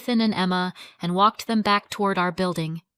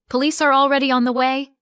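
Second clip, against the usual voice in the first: cold and firm; 6 semitones higher, 6 dB louder, faster than usual. A narrator's reading. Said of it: "Madison's voice didn't rise".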